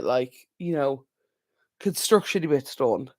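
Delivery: slow, stretched words mid-yawn. Real, not acted. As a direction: talk through a yawn. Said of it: "Excuse me, I'm so sorry".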